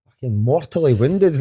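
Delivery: hammed-up hurt pride; sarcastic mock injury; mock wounded. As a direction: play it as mortally offended. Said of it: "I'm like".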